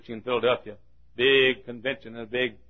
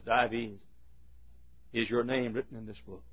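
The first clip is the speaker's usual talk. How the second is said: solemn judgement; 9 dB quieter than usual. Acted. God questioning Dives before the open book, hushed solemnity.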